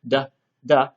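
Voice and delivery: "da" said with the tongue tip at the top of the mouth; d sound demo. Shown as a demonstration. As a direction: model "da" for learners. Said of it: "like you're going to make a D sound".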